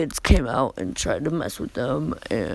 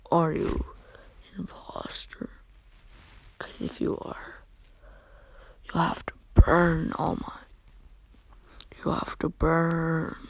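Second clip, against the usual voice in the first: darkened voice; 6 dB quieter than usual. Acted. Izuku threatening All Might with flames, dark hushed menace. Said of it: "Izuku's voice suddenly getting deeper".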